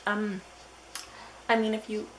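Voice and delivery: annoying hotline operator. Retold or imitated. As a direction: put on an irritating helpline voice. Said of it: "they were really annoying, literally. They're like".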